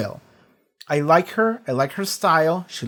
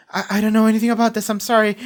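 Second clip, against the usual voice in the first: hurried nervous denial, a little higher; mock worried Ashley; 5 semitones higher, faster than usual. Ashley defending herself to Homelander, rushed and nervous. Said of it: "she's so worried".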